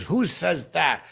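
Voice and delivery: high, loud, slow impression; drawn-out indignant celebrity imitation; Morgan Freeman. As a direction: demand it slowly in a put-on voice. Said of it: "he goes".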